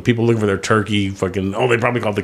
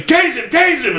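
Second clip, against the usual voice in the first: imitating a cop. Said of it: "I hear someone say".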